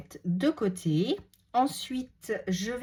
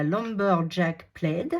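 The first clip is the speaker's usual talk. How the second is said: English name in a French accent; slower than usual. Real, not acted. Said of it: "Désolée pour mon accent". (accent français en anglais)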